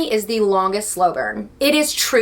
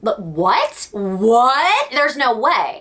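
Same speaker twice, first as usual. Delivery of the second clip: shocked disbelief; much slower than usual. Retold or imitated. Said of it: "I was like".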